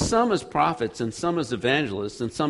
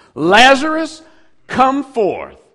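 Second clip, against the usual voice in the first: very loud, very high, ringing, booming delivery; 11 semitones higher, 13 dB louder than usual. Retelling what he said, the speaker acts out his words: retelling a loud command. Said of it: "he said it in a loud voice. He commanded it".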